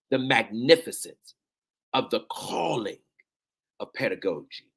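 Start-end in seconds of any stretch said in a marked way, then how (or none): 1.9-4.7 close to tears. Real, not acted. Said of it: "I'ma try not to cry saying it".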